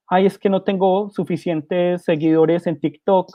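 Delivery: a preacher mocking trivial complaints of social media; mock whining. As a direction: parody a spoiled complainer crying over nothing.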